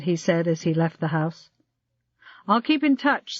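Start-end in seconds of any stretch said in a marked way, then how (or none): 2.5-3.4 called out. Acted. Sokolovsky calling after the departing Allberg, called out. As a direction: raise the voice to reach him at the door. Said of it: "Sokolovsky called".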